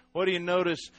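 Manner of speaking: ordinary delivery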